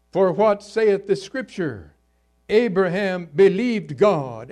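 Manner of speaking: loud, declaimed Bible verse; emphatic scripture reading. Real, not acted. Preacher quoting what the Scripture saith, emphatic reading. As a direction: proclaim the verse from the pulpit. Reads scripture aloud to congregation.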